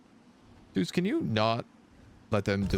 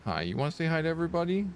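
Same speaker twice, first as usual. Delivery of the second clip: pet talk; 6 semitones higher, faster than usual. Real, not acted. Asking the cat to greet viewers.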